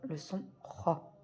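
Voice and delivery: drawn-out throaty Ra; slow demo syllable. Shown as a demonstration. Teacher slowly showing pupils the throaty Ra. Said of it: "on prononce cette lettre-là".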